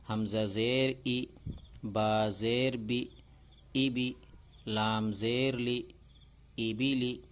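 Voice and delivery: slow, measured reading of each letter with its zer; slow Urdu reading drill; slow drill recitation. Shown as a demonstration. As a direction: chant it out for children to repeat, one syllable at a time.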